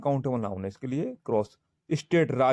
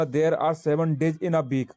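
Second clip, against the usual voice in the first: dictating word by word to students; teacher reading an example aloud, very slowly; slow dictation; much slower than usual. Shown as a demonstration. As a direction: read the sentence out very slowly. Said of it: "तो जैसे हमें शब्द बोलना".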